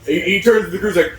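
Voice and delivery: ordinary talk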